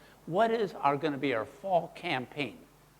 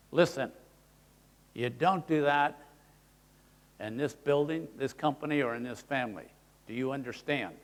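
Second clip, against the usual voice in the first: stern talk; 4 semitones lower than usual. Retold or imitated. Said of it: "You normally will go to this voice".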